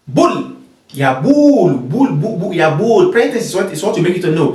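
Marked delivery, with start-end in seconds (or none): 0.1-3.1 bul said short and firm, repeated; command form bul. Shown as a demonstration. Teacher showing the command bul to students. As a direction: drill bul crisply. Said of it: "how do you say it?".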